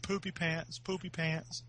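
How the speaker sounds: soft sing-song taunt, lightly retold; quiet mock taunt; mild teasing. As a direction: imitate teasing a little kid, softly. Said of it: "I started making fun of him".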